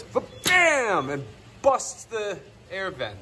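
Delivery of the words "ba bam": mock water-burst "ba-bam", high then falling; imitated bang. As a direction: sound out the bang, drawn-out second beat. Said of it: "and then it goes".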